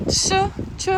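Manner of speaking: Ch as a short, bare "sh/ch" sound; isolated consonant sound. Shown as a demonstration. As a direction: demonstrate Ch alone, twice, with a pause. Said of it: "how does K become Sh?".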